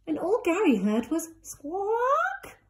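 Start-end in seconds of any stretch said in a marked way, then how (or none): 1.4-2.6 high squawking bird call; a bright bird squawk. Acted. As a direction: squawk it like a parrot. Bird noise in story.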